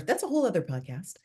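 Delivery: tuck the remark away in a whisper; whispered aside. Real, not acted. Guest whispering a side note to the host. Podcast aside said under breath.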